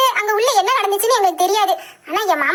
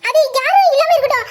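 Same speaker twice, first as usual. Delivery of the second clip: laughing; 8 semitones higher than usual. Acted. Teasing reply, laugh heard.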